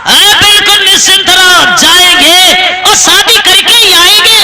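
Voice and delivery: confident boast. Acted. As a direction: brush the warning aside with bravado. Boastful groom brushes off warning. (पूरे भरोसे से ऊँचे सुर में डींग)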